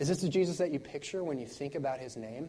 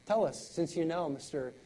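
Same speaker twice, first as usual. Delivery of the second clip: mocking taunt; 2 semitones higher, 4 dB quieter than usual. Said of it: "just mocking him".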